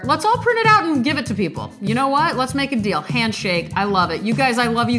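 fighting back tears while gushing thanks; emotional. Real, not acted. Host thanking listeners after the poem, choked up. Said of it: "Sorry I get so emotional".

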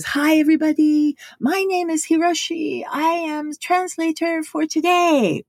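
put-on high-pitched broken English with a Japanese accent, over a megaphone. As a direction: imitate a Japanese translator with a Japanese accent.

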